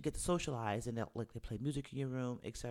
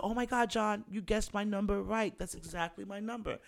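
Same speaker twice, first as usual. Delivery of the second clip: fake amazement; 7 semitones higher than usual. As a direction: pretend to be stunned he got it right. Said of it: "So he's like".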